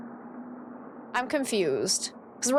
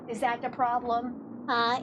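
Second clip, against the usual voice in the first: soothing pet talk; 3 dB quieter than usual. Real, not acted. Soothing dog about delivery man.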